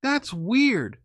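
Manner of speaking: high, puzzled voice; girlfriend voice. Retold or imitated. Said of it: "She's like".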